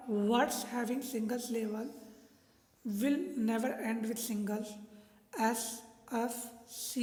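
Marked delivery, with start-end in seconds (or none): 0.1-1.9 slow, word-by-word dictation of the rule. Shown as a demonstration. Teacher dictating a spelling rule, slow and deliberate. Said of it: "rule number ten है हमारा". 2.8-4.7 slow, word-by-word dictation of the rule. Shown as a demonstration. Teacher dictating a spelling rule, slow and deliberate. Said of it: "rule number ten है हमारा".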